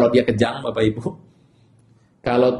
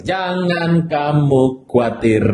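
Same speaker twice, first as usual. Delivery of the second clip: "jangan kamu khawatir" said slowly, each word drawn out; slow, deliberate repetition to a neighbour; slow reassurance; much slower than usual. Shown as a demonstration. Pastor leading the congregation to comfort neighbours, slowly. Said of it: "Bilang sama kiri kanan".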